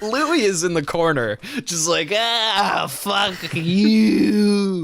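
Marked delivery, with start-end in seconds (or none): 2.1-4.8 put-on stoned kid. Stoned kid mumbling in corner.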